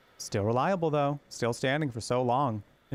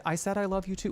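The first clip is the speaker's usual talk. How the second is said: mock imitation; 8 semitones higher than usual. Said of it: "Why did you say it like that?".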